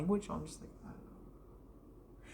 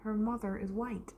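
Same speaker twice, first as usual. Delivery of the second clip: lightly voiced teacher, higher; imitated teacher; 4 semitones higher than usual. Teacher telling the class about a pupil's mother, lightly imitated higher voice. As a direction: lightly mimic a teacher explaining, pitched up. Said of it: "And she goes".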